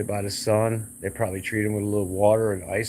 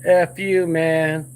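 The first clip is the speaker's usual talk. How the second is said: higher, louder hostile snap; angry retort; 6 semitones higher, 3 dB louder, slower than usual. Pretend. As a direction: fire it back like a furious neighbor. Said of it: "Now you got a neighbor from hell".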